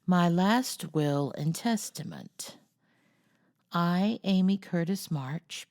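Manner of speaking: put-on slow, formal reading of a child's will; a lightly pompous legal reading; solemn document reading. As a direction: read it out with mock gravity, slowly.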